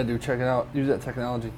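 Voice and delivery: talking while eating; mouth full. Real, not acted. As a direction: speak through a mouthful of food. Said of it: "Sorry, I'm eating".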